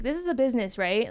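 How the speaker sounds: mock polite scold of a caller; sarcastic this is a business; pointed sarcasm. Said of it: "but it's like".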